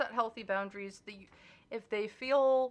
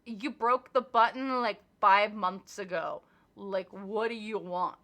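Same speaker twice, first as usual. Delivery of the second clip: louder, slow, fed-up comeback; exasperated retort; 6 dB louder, slower than usual. Acted. Telling off a toxic family member, louder and exasperated. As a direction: throw it back at them, exasperated and slow.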